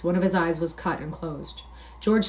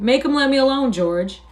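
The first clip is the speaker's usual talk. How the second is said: high, loud, pleading wail; frightened cry; 7 semitones higher, 6 dB louder than usual. A narrator's reading. Lenny begging George to stop Curly, crying out in terror. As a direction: beg for protection, voice pitched up. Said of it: "he cried".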